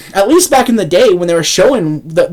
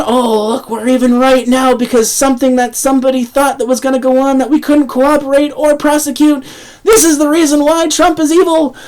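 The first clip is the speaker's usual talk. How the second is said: sarcastic mock media; 5 semitones higher than usual. Mocking media claims.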